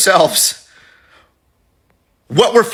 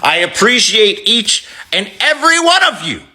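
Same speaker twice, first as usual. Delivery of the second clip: Obama's baritone; 5 semitones lower than usual. Retold or imitated. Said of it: "deep, amazing baritone voice".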